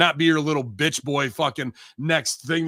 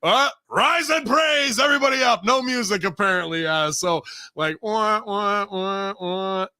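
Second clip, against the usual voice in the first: mock hype over a failed entrance, voice raised high; 6 semitones higher than usual. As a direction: belt it out like a wrestler making his big entrance. Mock announcer intro, no music.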